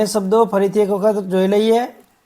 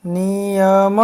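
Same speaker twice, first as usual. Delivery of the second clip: નિયમ stretched out syllable by syllable. Shown as a demonstration. First slow reading of the word list.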